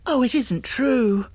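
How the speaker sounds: can't believe it; disbelieving cry. A narrator's reading. Girl crying out in disbelief, high. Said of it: "she said".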